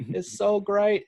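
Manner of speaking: mock Southern hillbilly. Racist fan excited for the race, mock Southern accent. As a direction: play a giddy redneck NASCAR fan in a Southern accent. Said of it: "with my Southern voice".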